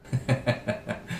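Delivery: short, soft chuckle. Real, not acted. Pastor to congregation after a quip, chuckling.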